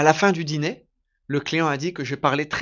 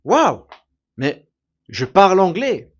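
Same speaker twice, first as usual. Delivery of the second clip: amazed realization; 3 semitones higher, 7 dB louder than usual. Retold or imitated. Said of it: "je me suis dit".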